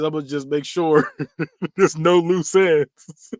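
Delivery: slow, drawn-out sinister plotting; a hint of Freddy savouring the plan; lightly voiced Freddy. Freddy plotting against Rod in jail, lightly voiced slow sinister. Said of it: "Freddy decides".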